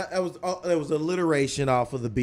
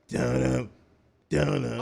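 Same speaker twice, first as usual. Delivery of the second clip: sung-out dun-dum sting; imitated musical sting; slower than usual. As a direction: mimic an ominous music cue. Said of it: "next thing you hear is".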